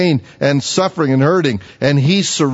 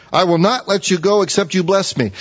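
commanding; 6 semitones higher than usual. Shown as a demonstration. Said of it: "it sounds like he's in command".

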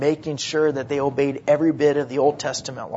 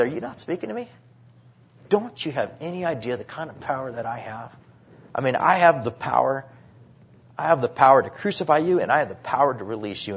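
arrogant Pilate. Retold or imitated. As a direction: sneer it like a puffed-up governor. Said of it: "He thinks he is so big".

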